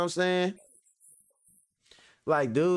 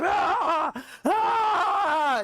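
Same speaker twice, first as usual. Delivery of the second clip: high squealing laugh; 3 dB louder than usual. Real, not acted. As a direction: burst into high-pitched laughter. Laughing at his own joke.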